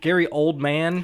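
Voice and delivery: put-on Oldman split as OLD MAN; joke pronunciation. Shown as a demonstration. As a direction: say Oldman slowly as two full words, old MAN. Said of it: "we're getting into semantics of names".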